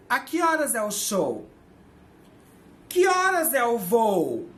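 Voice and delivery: high, slow example questions; teacher dictating practice sentences; slow dictation. Shown as a demonstration. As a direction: read each sentence slowly for learners to translate. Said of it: "mais uma vez assim".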